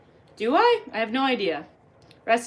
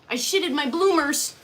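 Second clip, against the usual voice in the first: mild put-on confession; the milder mock admission; 3 semitones higher than usual. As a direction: confess it with mock dismay, held back. Reads out a silly confession.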